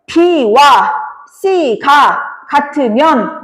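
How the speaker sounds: "B와", "C가", "같으면" slowly set apart; reading demonstration. Shown as a demonstration. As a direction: read "B와 C가 같으면" in slow, separate chunks. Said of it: "이렇게 읽어야 돼".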